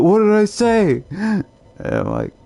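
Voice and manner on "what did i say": baffled. Retold or imitated. Retold friend, baffled.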